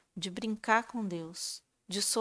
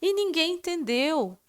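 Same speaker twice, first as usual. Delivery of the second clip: higher-pitched retold protest to God; complaining to Jesus; 7 semitones higher, 5 dB louder than usual. Woman grumbling to Jesus on the way home from the meeting, protesting. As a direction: take it up with the Lord, voice raised in pitch. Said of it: "vim embora conversando com Jesus".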